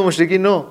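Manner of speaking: "مشرکین نو" ending in -no; damma ending. Shown as a demonstration. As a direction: say "مشرکین نو" as moshrekin-o, questioning. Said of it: "این مشرکین نه". («مشرکین نو» با ضمهٔ آخر، مُشرِکینُ)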